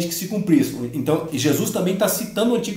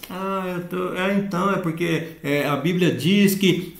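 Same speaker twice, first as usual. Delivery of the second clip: softer, hesitant delivery full of stalls; unconvincing teacher intonation; 3 dB quieter, slower than usual. Shown as a demonstration. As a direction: demonstrate a teacher with no conviction in the voice. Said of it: "isso é entonação de voz de professor?".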